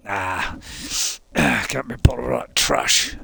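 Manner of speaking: unvoiced dismissive whisper; a scornful aside, whispered; whispered grumble. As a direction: mutter it off under your breath. Dismissing the journal in character.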